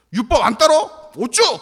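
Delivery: loud, high threatening challenge; acted-out shouted intimidation; mock bullying. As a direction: play a bully demanding obedience. Acting out the forceful majority.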